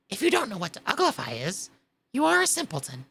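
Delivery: fast, a bit scornful creature; lightly voiced Griffin. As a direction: tell her off like a know-it-all.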